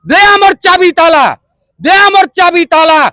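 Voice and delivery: chanted verse, surging then falling away; protest poem recitation. Acted. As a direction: declaim each line in a measured beat. (ଛନ୍ଦରେ ପ୍ରତିବାଦୀ କବିତା ଆବୃତ୍ତି)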